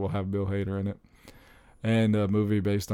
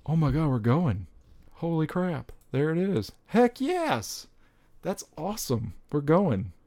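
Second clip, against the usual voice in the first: thrilled; 6 semitones higher than usual. Real, not acted. Dad thrilled his toddler will love the Paw Patrol movie, overjoyed. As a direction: squeal it out like the best news ever.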